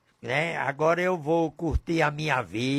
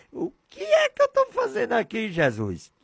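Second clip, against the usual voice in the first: laughing lament; 7 semitones higher than usual. Retold or imitated. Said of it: "eu digo".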